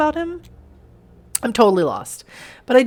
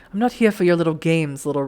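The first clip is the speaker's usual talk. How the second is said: understated, measured character warning; restrained warning; 2 semitones lower than usual. Acted. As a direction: warn with a light, held-back menace. First take of character's warning.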